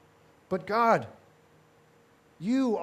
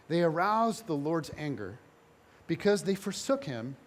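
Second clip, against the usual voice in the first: softer, sighing weariness; 3 semitones lower, 3 dB quieter than usual. Acted. The writer of Judges reporting the people's failure, sighing. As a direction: let the words sag with a sigh. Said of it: "kinda says with a sigh".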